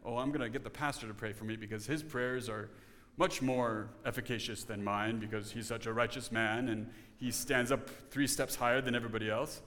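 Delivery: low, muted mimicry of a churchgoer; lightly voiced deferential church member; imagined churchgoer. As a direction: murmur it low, as someone in the pews. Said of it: "if you want someone to pray for you".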